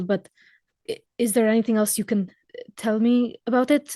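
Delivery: gentle. Acted. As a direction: speak gently to someone hurt. PC comforts the weeping elf gently.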